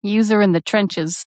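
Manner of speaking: put-on playfully borrowed Boston accent. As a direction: echo the Boston catchphrase. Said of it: "in a Boston accent".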